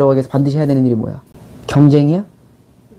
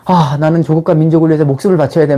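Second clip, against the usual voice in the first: earnest believer. Retold or imitated. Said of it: "내가 관념적인 인간이다".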